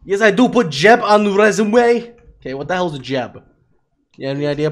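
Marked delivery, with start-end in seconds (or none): 0.0-2.1 loud, high, drawn-out mimicry; mocking imitation. Mimicking the other player's resume answer, mocking. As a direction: parrot it back loud and slow.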